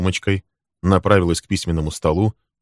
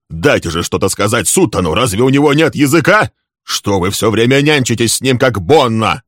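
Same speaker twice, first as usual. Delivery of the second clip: louder, higher angry shout; 5 semitones higher, 6 dB louder than usual. A narrator's reading. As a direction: shout him down in frustration. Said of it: "крикнул ему Лесли".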